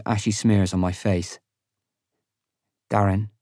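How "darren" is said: gentle. A narrator's reading. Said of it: "Selin says gently".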